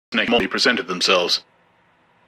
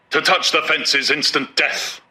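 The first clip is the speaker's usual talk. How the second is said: solemn; 6 semitones higher than usual. A narrator's reading. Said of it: "pronounced the warden solemnly".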